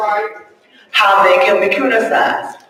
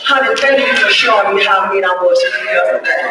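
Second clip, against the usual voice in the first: thanking the spouse; faster than usual. Shown as a demonstration. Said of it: "we don't thank our spouse".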